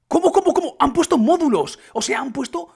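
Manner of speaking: very high, loud disbelief; excited, incredulous high voice; astonished outburst. Real, not acted. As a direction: blurt it out in high-pitched amazement. Astonished at new modules found.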